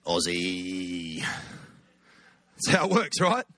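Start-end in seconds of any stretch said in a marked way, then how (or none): 0.1-1.2 very low, drawn-out Aussie nicknames; dropped voice. Shown as a demonstration. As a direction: drop right down and hold the last vowel. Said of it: "really drop your voice".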